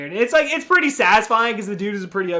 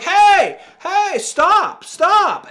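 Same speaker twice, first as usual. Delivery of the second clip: high loud mock yells; cop shouting stop; 12 semitones higher, 8 dB louder, much slower than usual. Cop yells at the deaf Santa, loud mock shout. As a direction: bark stop at the deaf man. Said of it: "So the dude's like".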